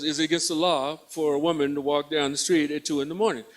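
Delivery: lightly voiced woman, low and soft; questioning woman. Stopped woman pressing the officer on law, quietly challenging.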